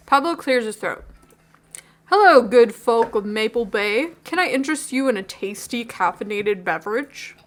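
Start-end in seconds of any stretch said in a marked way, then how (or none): 2.1-7.4 mock-formal greeting. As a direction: welcome customers like a herald. Barista doing formal greeting.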